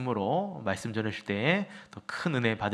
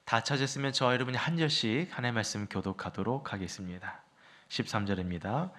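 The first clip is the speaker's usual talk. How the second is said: ordinary talk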